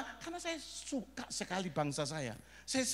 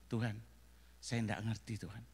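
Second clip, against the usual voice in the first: tag; 11 semitones lower, 6 dB quieter than usual. Retold or imitated. Acts out anxious private prayer.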